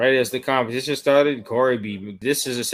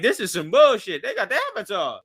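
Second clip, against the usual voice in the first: laughing complaint; 8 semitones higher than usual. Retold or imitated. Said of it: "The team was like".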